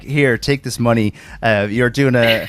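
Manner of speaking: slow mimicry with a Canadian lilt; imitated Canadian-sounding accent. Retelling a friend offering money, slow Canadian-sounding imitation. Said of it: "he's making you sound Canadian".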